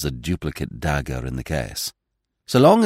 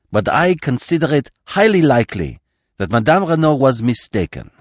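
sharp, cutting tone; biting; 2 semitones higher than usual. Acted. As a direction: bite each word with scorn. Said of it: "with a peculiarly biting inflection".

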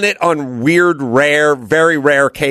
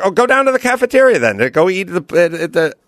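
dismissive brush-off; 6 semitones higher, faster than usual. Retold or imitated. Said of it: "It's like".

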